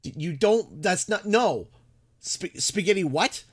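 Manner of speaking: mock outrage. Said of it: "I'm like".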